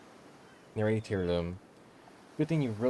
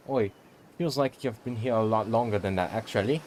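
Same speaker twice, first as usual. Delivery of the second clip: lightly put-on British accent; casual mock British, possibly straying Australian. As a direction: slip briefly into a loose British accent. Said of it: "I said that in a British accent".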